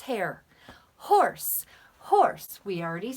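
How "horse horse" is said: excited. Pretend. Excited teacher repeats horse.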